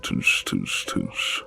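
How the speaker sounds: whispered teasing tut-tut. Acted. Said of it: "His voice is teasing".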